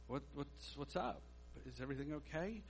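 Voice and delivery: very soft, halting question; hesitant and hushed, feeling the way in; tentative concern. Retold or imitated. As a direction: check in gingerly, voice dropped low. Tentatively asks a crying acquaintance.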